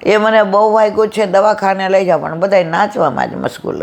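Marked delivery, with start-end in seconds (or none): 0.0-2.2 higher, pleading mock shout; groom calling for help. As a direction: call out like a fallen groom begging to be lifted. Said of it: "ઓલો વરરાજો બૂમ પાડે". (વરરાજાની મદદ માટે નાટકીય બૂમ)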